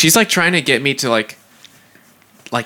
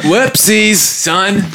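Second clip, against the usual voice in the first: mock older woman; 5 semitones higher, much slower than usual. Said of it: "She's like".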